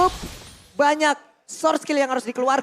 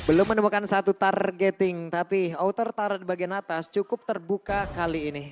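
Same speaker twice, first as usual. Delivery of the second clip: tense low commentary; 8 semitones lower, 6 dB quieter than usual. Real, not acted. Caster drops to tense low commentary.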